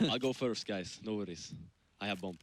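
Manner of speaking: lightly done mock Ukrainian accent; a half-hearted Ukrainian accent, playing a player. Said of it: "you're going with a Ukrainian accent".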